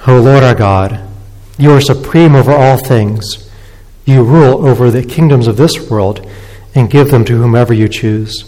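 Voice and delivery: measured, reverent public prayer; congregational prayer. Real, not acted. Pastor prays to God for the congregation, reverent prayer. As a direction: address God in even, deliberate phrases.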